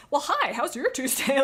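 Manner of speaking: high, loud sarcastic hello; deadpan-sarcastic check-in with a dad; mock casual greeting. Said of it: "and I'm like".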